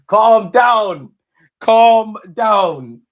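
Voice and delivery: high, loud, insistent shout; shouted calm down. Real, not acted. Shouting at excited chat.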